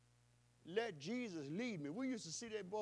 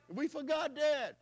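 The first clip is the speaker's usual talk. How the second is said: preaching emphasis; 7 semitones higher, 3 dB louder than usual. Acted. Preacher rebuking the church, high and loud. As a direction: ring out the rebuke.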